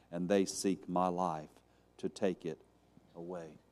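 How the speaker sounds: low, softened complaint, fading out; subdued. Acted. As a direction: say it quietly, sinking to almost nothing. Subdued repeat of Elijah's complaint.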